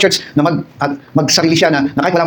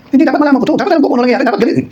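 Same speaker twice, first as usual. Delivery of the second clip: insistent Eve; 9 semitones higher than usual. Retold or imitated. Eve voiced insisting on knowledge.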